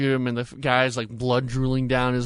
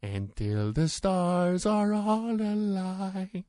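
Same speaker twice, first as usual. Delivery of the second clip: slow, high Scottish singing; Scottish accent; 9 semitones higher, much slower than usual. Retold or imitated. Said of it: "really thick Scottish accent".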